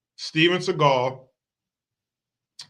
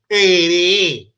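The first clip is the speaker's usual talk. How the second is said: loud mock yell; 3 semitones higher, 8 dB louder than usual. Comic showing how to clear a room, yelled. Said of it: "yell those words out".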